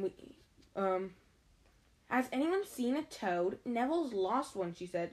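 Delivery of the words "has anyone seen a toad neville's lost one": put-on lightly bossy girl's voice. Girl asks boys about a lost toad, mildly bossy. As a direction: ask with a touch of bossiness. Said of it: "She had a bossy sort of voice".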